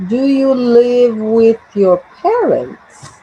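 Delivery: slow, drawn-out "Do you live with your parents"; question intonation demo. Shown as a demonstration. Teacher marking the intonation for the class, slowly drawn out to "parents". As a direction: stretch it out to show the tune up to "parents". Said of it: "the intonation".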